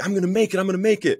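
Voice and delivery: high-pitched, giddy re-enactment; retold excitement. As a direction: squeal it like you can hardly believe your luck. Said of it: "I'm all excited".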